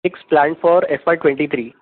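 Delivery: very loud, emphatic repeat; repeating to be heard. Real, not acted. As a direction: project the question hard down a bad line. Repeats question for listener who couldn't hear.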